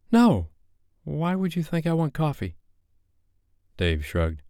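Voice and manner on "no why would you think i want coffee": Sophie, sharp refusal. Acted.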